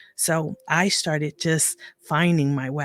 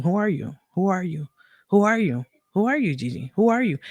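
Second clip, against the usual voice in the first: repeating to herself; 4 semitones higher, faster than usual. Retold or imitated. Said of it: "just kept repeating".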